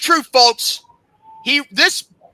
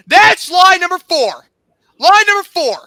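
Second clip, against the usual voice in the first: incensed, raised-voice tally; angry accusation; 5 semitones higher, 5 dB louder than usual. Real, not acted. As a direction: call out the lie in fury. Angrily tallies the admin's lies.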